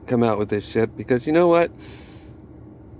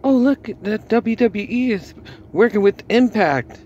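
mock excitement; 8 semitones higher than usual. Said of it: "all excited about".

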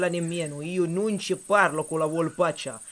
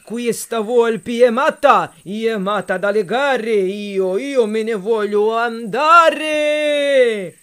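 higher, frantic calls for help; panicked cry for help; 3 semitones higher, slower than usual. Acted. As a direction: flee in a panic, yelling. Bear fleeing the fox in panic.

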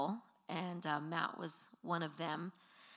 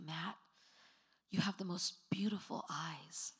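lightly voiced adoring compliment, lowered pitch; hushed, earnest retold praise; adoring boy; 3 semitones lower, 3 dB quieter than usual. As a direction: imitate a boy gazing in admiration. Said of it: "just gazing in his eyes".

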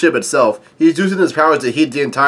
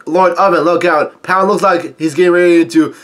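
raised, higher-pitched pretend shout; mock yelled warning; 4 semitones higher, 4 dB louder than usual. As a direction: call out a half-serious warning. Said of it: "Big Mom pirates yell out".

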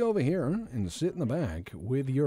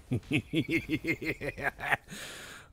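long staccato giggle; giggling; 4 semitones higher than usual. Real, not acted. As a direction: let out a drawn-out snicker. Giggles after own joke.

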